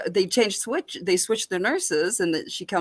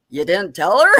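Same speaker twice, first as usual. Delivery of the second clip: shocked doctor; 2 semitones higher, 7 dB louder than usual. Retold or imitated. Doctor voiced in story.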